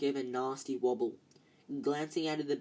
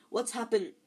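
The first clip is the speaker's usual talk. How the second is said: higher startled question; breathless alarm; gasped; 7 semitones higher than usual. A narrator's reading. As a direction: caught off guard mid-attack. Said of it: "Ron gasped".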